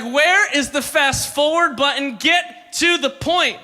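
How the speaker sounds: exasperated. Retold or imitated. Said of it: "You're like".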